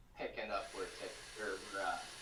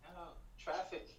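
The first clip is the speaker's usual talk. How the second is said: mock traffic rage; 12 semitones higher than usual. Imitating the British driver: laughing mock rage. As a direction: rant at being stuck in traffic.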